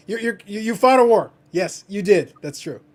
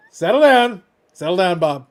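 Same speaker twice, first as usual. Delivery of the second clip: louder, firm "settle down"; mock scold; 10 dB louder than usual. Telling Bob in chat to settle down, playful scold. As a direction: shush the chatter in jest.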